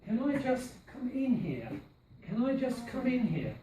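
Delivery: I stressed as well as IN, falling tune. Shown as a demonstration. Teacher modelling stress on I for the class. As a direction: lean on "I" and on "in". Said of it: "I think I is stressed as well".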